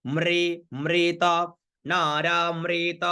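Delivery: मृत held long as "mreta"; "re" pronunciation. Shown as a demonstration. Teacher drilling नारा मृत, held syllables with "re". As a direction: intone नारा मृत evenly, मृ as "mre". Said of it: "रे का उच्चारण करना है".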